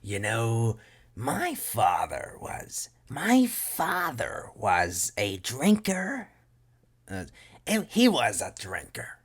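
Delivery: slow, swooping, high villain delivery; Mark Hamill. Acted. Showing a Joker take, slow theatrical swoops. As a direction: stretch the words and leap up high. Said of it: "You could do the Mark Hamill".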